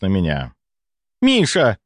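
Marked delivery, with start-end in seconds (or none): 1.2-1.8 high, eager countess crying out a name; exclaiming. A narrator's reading. Countess greeting the doctor, eager high exclamation. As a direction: call out his name with sudden hope. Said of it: "воскликнула графиня".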